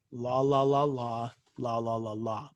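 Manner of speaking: flat, low, tuneless la la la; monotone la la. Shown as a demonstration. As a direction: chant la la without any melody. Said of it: "Monotone, not melodic at all".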